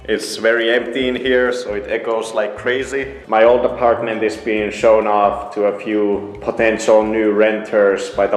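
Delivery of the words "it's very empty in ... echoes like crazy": echoing in an empty room; hallway echo. Real, not acted. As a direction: talk in a bare, echoey room. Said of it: "As you can hear from the echo".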